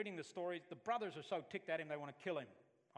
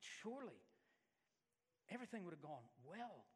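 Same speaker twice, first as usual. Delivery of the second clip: despairing doubts; 8 dB quieter than usual. Retold or imitated. Crushed inner doubts after rebuke.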